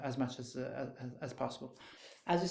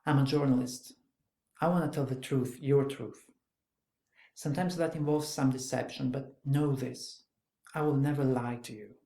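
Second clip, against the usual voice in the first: firm, louder journalist's pitch; dry and direct; 4 dB louder than usual. Acted. Journalist pressing a wary girl to trust him, dry and direct. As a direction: state it plainly and drive each point home. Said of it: "dry, quite quick, quite direct".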